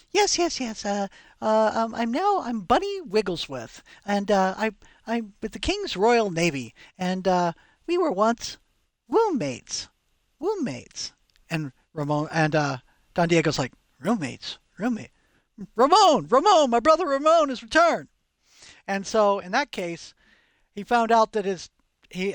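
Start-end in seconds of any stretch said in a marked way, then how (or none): 0.1-11.1 fussy British dandy; English sailor voice. Retold or imitated. Retelling a foppish English sailor. 14.0-18.1 booming, proud father's welcome, rising to louder; grand old Spanish nobleman; Don Diego. Retold or imitated. Don Diego greeting his son.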